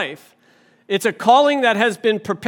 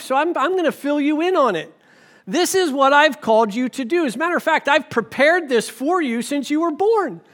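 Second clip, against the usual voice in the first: a lightly voiced Jesus, a bit higher; friendly Jesus; 5 semitones higher than usual. Jesus tells a churchgoer his calling, in a light, higher, friendly voice. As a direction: cheerfully lay out the plan like a friend on the phone. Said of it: "If he's like".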